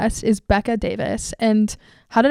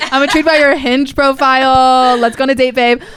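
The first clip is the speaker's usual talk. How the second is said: a hint of a mock-seductive flirt; louder, teasing pickup line, hammed up a little; flirty dating-app line; 3 semitones higher, 7 dB louder than usual. Podcast host joking to her guest in a flirty dating-app voice. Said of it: "which feels like I'm dating you".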